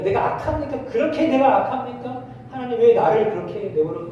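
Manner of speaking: high, pressing protest; indignant plea to God; Job protesting. Retold or imitated. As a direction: push the questions up as Job pleads. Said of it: "라고 지금 그렇게 항변하는 거예요".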